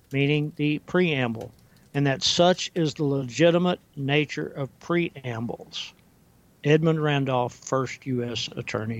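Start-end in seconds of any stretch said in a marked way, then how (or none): 1.9-5.9 careful, measured quote reading; very slow reading. Real, not acted. Host reading Attorney General's words for listeners, very slowly. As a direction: finish the quotation slowly and deliberately. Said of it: "gonna read it very slowly".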